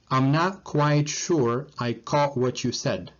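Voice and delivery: slow, each word laid out for learners; unhurried teacher demo with a lift on "not"; slow careful reading. Shown as a demonstration. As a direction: model it slowly so students can repeat. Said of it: "let's read it one more time to pronounce it correctly".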